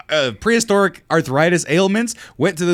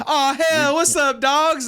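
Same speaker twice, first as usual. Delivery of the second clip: higher, casual bro greeting; street slang greeting; 10 semitones higher, much slower than usual. Retold or imitated. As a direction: swagger in with a loose greeting. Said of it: "he comes in".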